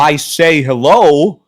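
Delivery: slow, mock Italian accent. Comic Italian guy greeting, mock Italian accent. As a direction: play up an Italian accent for laughs. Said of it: "I'm an Italian".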